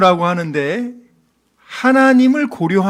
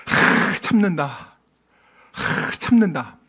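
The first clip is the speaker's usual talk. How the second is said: long exhale, then quiet restraint; acted patient parent's heavy sigh; holding back; 2 semitones lower, 4 dB quieter, slower than usual. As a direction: breathe out hard and swallow the frustration. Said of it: "정말 오래 참아요".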